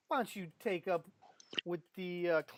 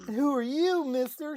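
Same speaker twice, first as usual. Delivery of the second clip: lively NPC; 11 semitones higher, 11 dB louder than usual. Acted. Rita addresses Hedok.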